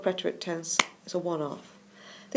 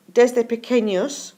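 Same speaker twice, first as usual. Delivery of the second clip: slow clear model; 4 semitones higher, 8 dB louder, slower than usual. Shown as a demonstration. Teacher models Spanish phrase slowly.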